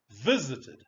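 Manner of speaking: VISITED as VIS-it-ed; first-syllable stress. Shown as a demonstration. Teacher shows the unstressed ending, VISITED stressed on VIS. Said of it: "the stress is not".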